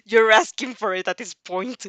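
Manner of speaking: a warning ground out through the teeth; gritted threat. Acted. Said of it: "he gritted out".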